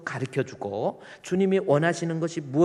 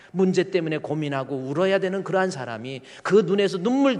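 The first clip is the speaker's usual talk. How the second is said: preaching climax; 4 semitones higher, 5 dB louder than usual. Real, not acted.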